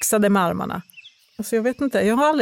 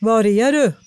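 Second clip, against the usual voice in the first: light call into the unknown; 4 dB louder than usual. Acted. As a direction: call out to find the speaker. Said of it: "ropade sonen".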